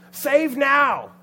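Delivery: high, very loud rallying cry; acted full-voiced yell. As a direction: shout it as a crowd's plea. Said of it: "He yells out".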